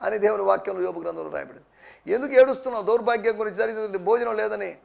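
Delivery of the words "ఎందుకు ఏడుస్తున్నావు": raised, pressing preacher's question; firm, projected challenge; challenging question. Acted. Preacher challenges the congregation's weeping.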